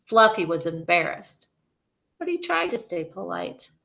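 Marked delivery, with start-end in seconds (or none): none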